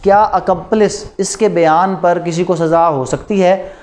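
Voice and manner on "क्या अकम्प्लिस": ordinary talk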